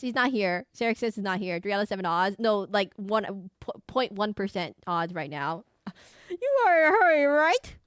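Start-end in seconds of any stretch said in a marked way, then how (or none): 6.3-7.8 high, loud, bad French accent. Game girl apologising to a stranger, high mock French accent. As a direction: do a hammed-up French girl, pitched way up. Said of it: "this is my French accent".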